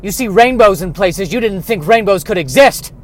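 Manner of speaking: a hammed-up country farmer shouting out the gossip; loud Southern farmer. Farmer loudly telling his wife about unicorn love, in a hammed-up Southern voice. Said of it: "has a southern bent".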